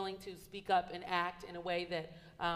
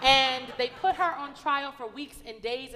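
still laughing; 6 semitones higher, 9 dB louder, slower than usual. Real, not acted. Still laughing after joke.

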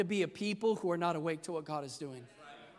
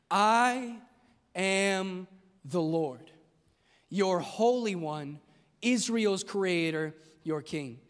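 solemn; 3 semitones lower, much slower than usual. Acted. Voicing God's proclamation.

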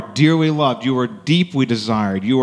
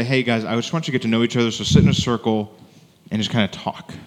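casual mock instruction. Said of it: "He doesn't just say".

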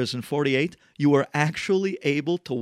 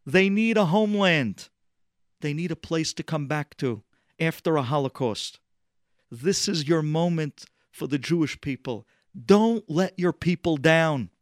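pleading; 4 semitones higher than usual. Retold or imitated. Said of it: "They're pleading with Eddie".

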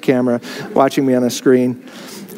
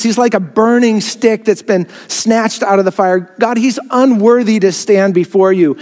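accusing Satan; 6 semitones higher than usual. Acted. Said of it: "Satan is standing there accusing him, saying".

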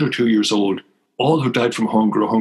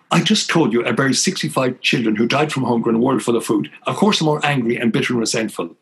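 retold angry snap; 3 semitones higher than usual. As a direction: snap back at him in hurt frustration. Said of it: "I snapped at him".

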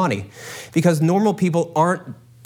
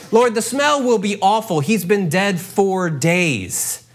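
blunt protest; 4 semitones higher, slower than usual. Acted. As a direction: make the stink obvious. Martha retold more vividly.

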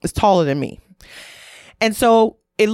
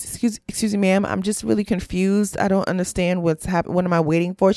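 soft, polite put-on white woman voice; 3 dB quieter than usual. Politely questioning a TSA supervisor in a white woman voice. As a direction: put on your best white woman voice, quietly baffled. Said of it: "my best white woman voice".

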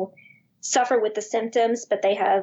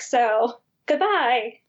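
dismissive doctor; much slower than usual. Acted. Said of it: "doctors were like".

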